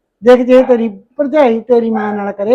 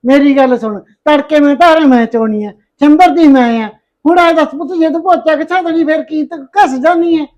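loud, raised scolding voice; 4 semitones higher, 4 dB louder than usual. Acted. Mother-in-law scolding her daughter-in-law loudly. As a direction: scold her for refusing the chores.

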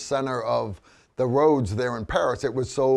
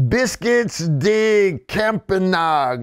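high, hammed-up redneck French; redneck French accent; 6 semitones higher, 4 dB louder, slower than usual. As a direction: butcher it slowly in mock redneck French. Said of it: "redneck French accent that I can pull off".

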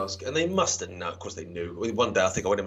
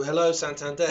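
bank call greeting; 4 semitones higher, 4 dB louder than usual. Retold or imitated. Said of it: "that's how they answer the phone".

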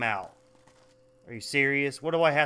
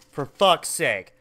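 louder curse; 6 dB louder, slower than usual. Real, not acted. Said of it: "For the sake of fuck".

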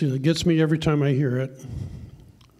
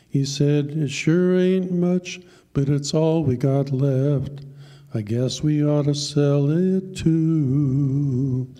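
poem recitation; slower than usual. Acted. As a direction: tell the poem like a heartfelt country ballad. Recites a poem over music.

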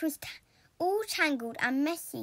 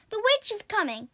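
frightened cry; 6 semitones higher, 4 dB louder than usual. A narrator's reading. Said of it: "cried Rapunzel".

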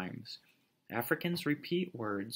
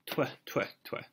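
sky god's "twa" chuckle; three short puffed chuckles; storybook chuckle. A narrator's reading. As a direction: chuckle in crisp little bursts. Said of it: "chuckled the sky god".

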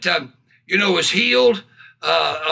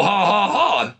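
deliberate spoken ha-has; demonstrated forced laugh. Shown as a demonstration. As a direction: show how to laugh on purpose. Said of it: "That's how you do it".

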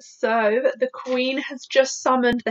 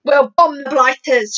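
louder, measured military outburst; half-shouted battle order, slowed down; mild shout; 2 semitones higher, 5 dB louder than usual. Acted. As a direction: call it out firmly as an air chief. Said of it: "shouted the head of the Air Force".

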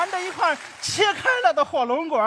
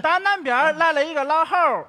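tongue twister recital. Shown as a demonstration. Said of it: "注意听啊".

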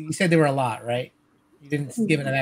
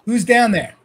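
deep bugbear voice; 6 semitones higher, 5 dB louder than usual. Acted. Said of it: "a deep bugbear voice in Goblin".

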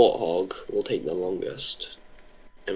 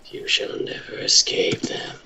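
whisper; 5 dB quieter than usual. Pretend. Ominous threat about references.

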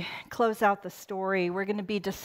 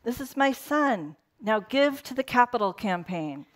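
mock demanding God; 3 semitones higher than usual. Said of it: "the kind of God who is like".

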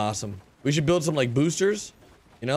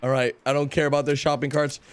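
usual speaking voice

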